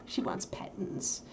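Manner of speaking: slow, soft cooing; soft slow pet talk. Real, not acted. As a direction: coo to the puppy. Cooing over puppy.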